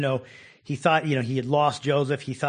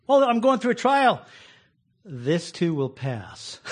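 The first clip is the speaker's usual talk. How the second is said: calm reassurance; 2 semitones higher, 4 dB louder, slower than usual. Shown as a demonstration. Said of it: "learn to say".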